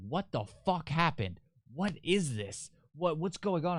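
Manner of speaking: high, panicked questions from a frightened mother; frantic mom. Retold or imitated. Mother phoning her son after break-in, panicked high voice. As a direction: imitate mom freaking out on the phone. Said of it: "she's freaking out".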